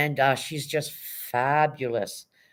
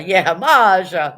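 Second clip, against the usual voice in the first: laughing; 8 dB louder, much slower than usual. Real, not acted.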